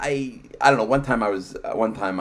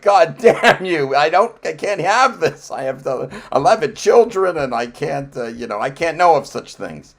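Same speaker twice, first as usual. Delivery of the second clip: mock Amish man; 2 semitones higher, 7 dB louder than usual. Pretend Amish man refusing to hear about iPhones, loud and hammed-up. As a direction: ham up a scandalized Amish elder. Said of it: "he'll be like".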